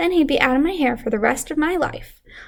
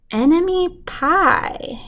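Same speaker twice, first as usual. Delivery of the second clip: satisfied dad; 5 semitones higher, much slower than usual. Acted.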